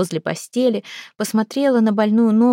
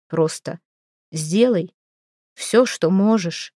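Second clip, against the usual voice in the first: grim, curt; slower than usual. A narrator's reading. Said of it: "мрачно бросил Кармак".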